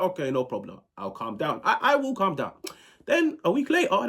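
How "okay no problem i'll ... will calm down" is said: meek reply. Retold or imitated. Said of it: "I was like".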